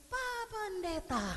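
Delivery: slow, high, hushed realisation; stunned recognition. Retold or imitated. Angry driver recognises the pastor, slow stunned surprise. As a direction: stop short as you recognise him. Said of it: "Begitu dia bilang".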